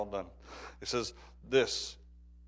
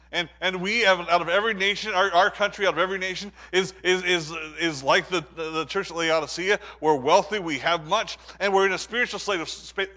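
raised, higher preaching voice; forceful preaching; 7 semitones higher, 9 dB louder than usual. Real, not acted. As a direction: press the point on the congregation. Preacher drives point home.

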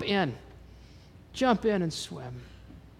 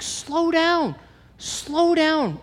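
much higher pleading to calm him; urgent calming; 10 semitones higher, 4 dB louder, much slower than usual. Retold or imitated. Calming the cursing driver, urgent and high. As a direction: talk a panicking man down, high and quick.

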